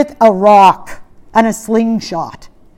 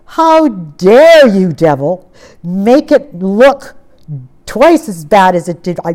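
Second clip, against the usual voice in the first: indignant; 3 semitones lower than usual. Retold or imitated. Preacher retelling his rebuke of the devil, indignant. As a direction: rebuke the enemy, leaning hard on DARE. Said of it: "I rose up with indignation".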